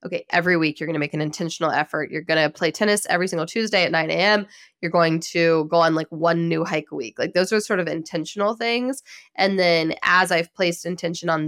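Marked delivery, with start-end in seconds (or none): 0.1-7.2 fast, pushy pep talk to herself; brisk self pep talk. Retold or imitated. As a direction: rattle it off like giving yourself orders. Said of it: "I was like".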